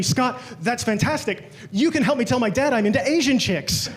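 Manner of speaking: lightly voiced excited best friend; excited buddy. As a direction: gush happily like the delighted friend. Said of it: "He was so excited".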